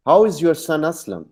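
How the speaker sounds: high "How", "son Aslam" joined without a break; no pause before Aslam. Shown as a demonstration. Teacher asks after the son, "son Aslam" unbroken. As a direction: run "son" straight into "Aslam". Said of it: "अब ये rising tone है".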